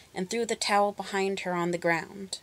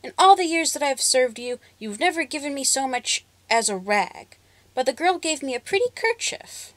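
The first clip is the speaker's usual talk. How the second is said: trembling servant; 6 semitones higher than usual. A narrator's reading. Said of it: "trembled the servant".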